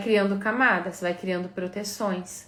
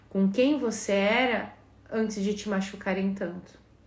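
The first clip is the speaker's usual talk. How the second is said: usual speaking voice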